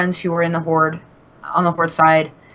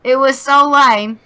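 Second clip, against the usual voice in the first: much higher, louder, slow cartoonish British voice; exaggerated British accent; 9 semitones higher, 6 dB louder, slower than usual. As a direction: go full cartoon Brit, laughing through it. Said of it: "I need to be more rigor morty".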